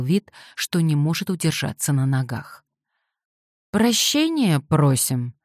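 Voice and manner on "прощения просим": slow, slurring mock drunk; slurred drunk. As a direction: slur it like a hungover drunk. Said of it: "сказал он заплетающимся языком, изображая пьянчушку".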